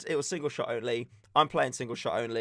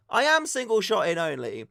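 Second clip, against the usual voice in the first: mild mock shout; retelling shouting back at marshals; 5 semitones higher, 4 dB louder than usual. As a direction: call back defensively. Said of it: "So I shout back".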